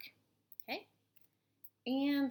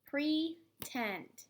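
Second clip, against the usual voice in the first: pounded-out syllables; 5 semitones higher than usual. Shown as a demonstration. Teacher pounding out pretend for spellers, syllable by syllable. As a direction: pretend split into pre and tend, higher. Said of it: "let's pound this one out".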